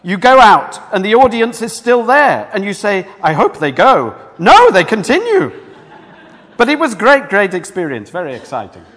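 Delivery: loud, animated mock-Italian delivery; hammed-up Italian accent, fading at the end; bad Italian accent. Preacher quoting an opera singer after his ovation, bad Italian accent. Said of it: "sorry, bad accent".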